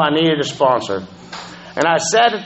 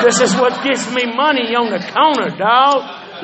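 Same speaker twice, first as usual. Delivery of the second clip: laughing; 5 semitones higher than usual. Retold or imitated. Mocking his own panhandling pitch.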